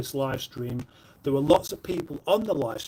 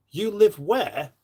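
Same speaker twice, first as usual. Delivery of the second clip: menacing question; 5 semitones higher, slower than usual. Retold or imitated. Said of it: "That sounds almost threatening".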